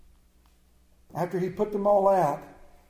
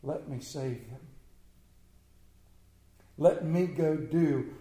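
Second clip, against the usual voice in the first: earnest pleading; 3 semitones lower, slower than usual. Acted. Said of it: "pleading earnestly with the Father".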